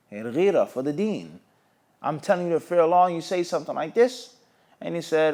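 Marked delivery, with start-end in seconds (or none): 2.0-4.4 indignant anger. Retold or imitated. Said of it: "he became angry and he became jealous".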